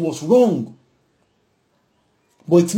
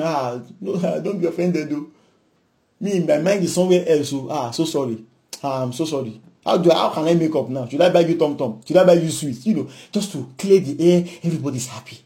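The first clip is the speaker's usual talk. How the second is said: softer, lower, gentle apology; soft sincere apology; 4 semitones lower, 3 dB quieter than usual. Retold or imitated. Student to a classmate, gently apologizing in a soft voice. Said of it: "continued sincere apology".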